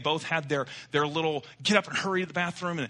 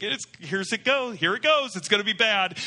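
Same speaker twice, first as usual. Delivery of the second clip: higher, louder, alarmed muttering; rising panic; 6 semitones higher, 5 dB louder than usual. Retold or imitated. Husband dreading his smelly foot, panicked and loud. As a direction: panic creeping in as it gets worse. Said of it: "He's like".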